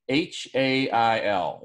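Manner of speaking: H A I L spelled letter by letter, slowly; spelling it out. Shown as a demonstration. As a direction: spell out H A I L, one slow letter at a time. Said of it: "he calls hail".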